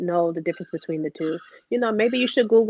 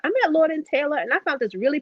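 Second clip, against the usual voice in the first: breezy mother voice; 6 semitones higher, faster than usual. Retold or imitated. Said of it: "she was like".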